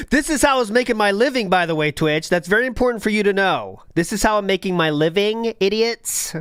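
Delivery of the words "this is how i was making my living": laughing mock repeat.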